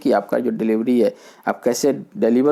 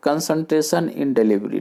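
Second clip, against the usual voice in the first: slow heading; 3 semitones higher, much slower than usual. Shown as a demonstration. Reads point title slowly.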